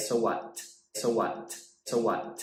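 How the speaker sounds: "so what" with a hard, full T; overdone T sound. Shown as a demonstration. Teacher showing learners the wrong, overdone T, lightly mocking. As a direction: pronounce a full T in "so what" each time. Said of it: "you don't have to say".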